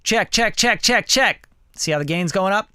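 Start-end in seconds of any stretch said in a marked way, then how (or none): 0.0-1.5 high, rising mic check. Shown as a demonstration. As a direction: run the check up in pitch. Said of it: "So let's turn that down".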